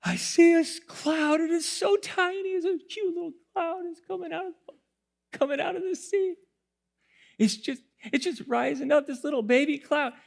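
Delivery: high, hushed awe at a tiny cloud; servant marvelling. Retold or imitated. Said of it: "and he's like".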